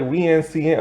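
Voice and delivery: "Wee N C N" run together as nonsense name; imitated pronunciation. Reviewer mimicking the French cop's fast name, rapid "Wee N C N". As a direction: rattle off "Wee N C N" quickly. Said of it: "it just sounds like".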